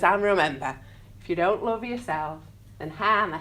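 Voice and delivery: a light hint of RuPaul's American drag accent. Quoting RuPaul's closing line to the audience, light American accent. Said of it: "oh, I shouldn't do the accent".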